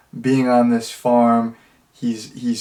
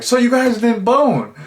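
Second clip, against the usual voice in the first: much higher mock female voice; imitating Rebecca; 11 semitones higher than usual. Reviewer quoting Rebecca's question, mock high voice. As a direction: ask it the way Rebecca does, pitched up high. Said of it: "Rebecca's like".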